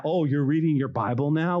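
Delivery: lightly jeering question; a touch of mock disbelief; mocking coworker. Coworker spotting a Bible at lunch, mildly mocking. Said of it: "coworkers that are mocking you".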